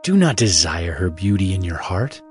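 ordinary delivery

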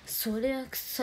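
very slow, drawn-out catchphrase; slow teasing catchphrase; mock cool catchphrase. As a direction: stretch every syllable to tease her. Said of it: "かっこよく言ってない".

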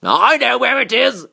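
high-pitched character call; admiral crying out. A narrator's reading. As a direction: announce it eagerly as the admiral. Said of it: "cried the admiral".

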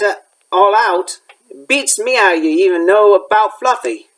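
a touch of big gruff Hagrid holding firm; mild Hagrid voice, half scolding. Acted. Hagrid's long refusal.

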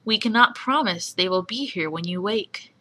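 "cannot" lifted, radio host read; Cecil impression. Shown as a demonstration. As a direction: stress on "cannot", rising. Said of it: "okay, my Cecil impression".

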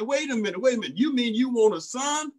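mock the doubter's disbelief; imitating a doubter who can't believe she'd give him back; incredulous skeptic. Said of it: "a natural mind would say".

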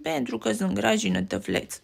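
soft, sighing half-whisper; sighing, almost whispered. Acted. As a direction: breathe it out sadly. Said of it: "suspină Barney, aproape șoptit".

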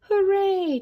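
high, loud, delighted cheer; big drawn-out hooray, falling from high. A narrator's reading. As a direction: cheer them on proudly. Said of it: "cheered Mama".

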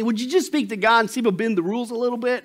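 lightly acted imploring. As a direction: plead for a favor, playfully acted. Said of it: "He's imploring".

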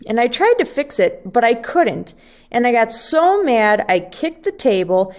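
put-on a fast, breathless list of a little boy's complaints; upset kid rant. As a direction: let it tumble out like a kid venting. Sam pours out his woes.

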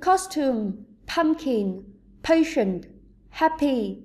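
"costume", "pumpkin", "patient", "happy", each with the beat on its opening syllable; word-list demo: COS in "costume", PUMP in "pumpkin", PA in "patient", HAP in "happy"; first-syllable stress. Shown as a demonstration. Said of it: "có trọng âm thứ nhất".

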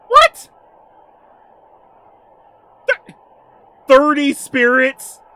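high, loud, stretched-out disbelief; flabbergasted, voice shooting up; astonished. Real, not acted. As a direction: blurt it out in shock. Astonished at thirty spirits.

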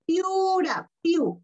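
piura drawn out slowly for the class; slow teaching demo. Shown as a demonstration. Teacher reading a word to her pupils, slowly drawn out. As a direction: stretch out piura so every sound is clear. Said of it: "acá".

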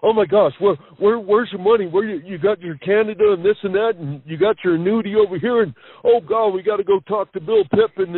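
retelling dad's giddy excitement; excited dad. Retold or imitated. Son retelling his dad's excitement over the land, excited. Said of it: "he just started jumping up and down".

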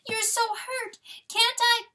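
high, pleading fawn wail. A narrator's reading. Fawn seeing Papa so hurt, high wail. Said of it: "wailed little Delacour".

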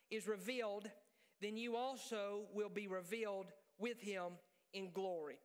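measured, projected Bible reading; solemn public reading with long pauses; scripture reading. Acted. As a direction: read it out to the congregation in slow, weighted phrases. Reads scripture aloud.

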